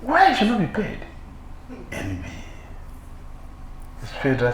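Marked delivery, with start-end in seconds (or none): 0.0-1.0 higher, laughing indignation; laughing disbelief. Real, not acted. Preacher laughs at the envious man's logic, higher. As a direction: laugh at the absurdity.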